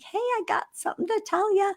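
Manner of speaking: high, fast, sing-song tease; playful announcement. Retold or imitated. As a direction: lift the voice way up to spring the news. Teasing husband during baseball game.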